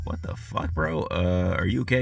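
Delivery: whispered, wary question; imitating his whispered confrontation; retold whisper. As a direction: whisper it so the stranger barely hears. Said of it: "and I'm like".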